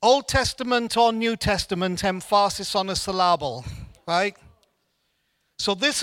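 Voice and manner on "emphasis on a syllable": "emphasis" and "syllable" stressed on their middle syllables; jokily misplaced stress: "emphasis" as em-FAR-sis, "syllable" as suh-LAH-bul; wrong-syllable stress. Shown as a demonstration. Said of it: "emphasis was on the wrong syllable".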